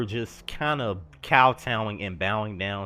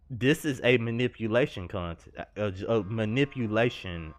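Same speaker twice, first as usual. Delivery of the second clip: stumbling and restarting the words; stuttering. Real, not acted. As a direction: trip over the words, then restart. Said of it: "I'm stuttering from talking about this".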